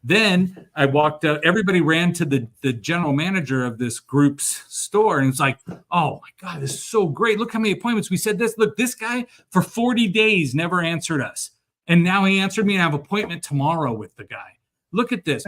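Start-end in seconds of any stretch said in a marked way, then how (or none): 5.9-15.4 excited staff. Retold or imitated. Staff excitedly showing off appointments.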